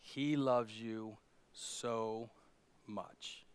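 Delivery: soft, slowing, voice choked with tears; telling a grieving man God loves him, tearfully. Retold or imitated. Pastor comforting Frank, softly tearful. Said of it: "tears welled up in my eyes".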